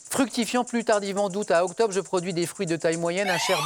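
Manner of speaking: measured quiz-host reading over music; quiz clue read. Acted. Host reading a clue to the contestants, measured and clear.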